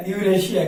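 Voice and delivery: यूरेशिया। with a palatal sh before the final -iya. Shown as a demonstration. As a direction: say यूरेशिया। as yu-re-shi-ya. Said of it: "तलब सा है ना यहाँ".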